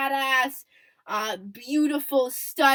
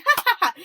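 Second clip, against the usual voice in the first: mock "ha ha ha", louder and higher; imitated lead laugh; 10 semitones higher, 5 dB louder, faster than usual. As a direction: imitate a laugh with loud, separate ha's. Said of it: "a little bit of a lead laugh".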